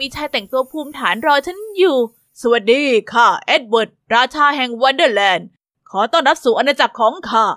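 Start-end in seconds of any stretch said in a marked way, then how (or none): 2.2-7.4 lower, lightly voiced kindly king; a gentle royal welcome, a touch regal; lightly voiced stately king; King Edward.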